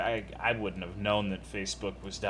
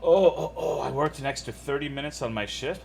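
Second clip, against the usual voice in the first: excited exclamation; 5 semitones higher, 5 dB louder than usual. Real, not acted. Reacting to chat about overtime.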